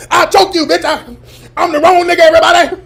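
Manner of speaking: high, loud mock yell; a hammed-up angry woman; imitating the woman. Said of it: "But the woman, you all".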